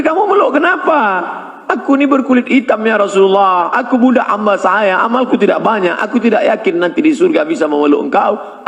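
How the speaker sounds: storytelling voice. Retold or imitated. Retold hadith dialogue.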